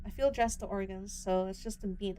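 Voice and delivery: steady storytelling read; story narration. A narrator's reading. Streamer reading the hunter scene to viewers, steady storytelling read. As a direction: read the scene out like a dark novel. Reads the game's story and dialogue aloud.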